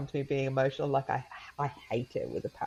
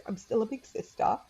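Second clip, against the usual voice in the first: put-on child's voice; 3 semitones higher than usual. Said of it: "she goes".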